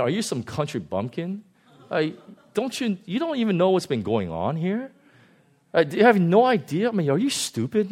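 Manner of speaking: scornful disciples scolding; mock rebuke. Disciple Cleopas scolding Jesus in a mocking voice. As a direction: talk down to him like a fool. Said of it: "I'll give you the modern translation".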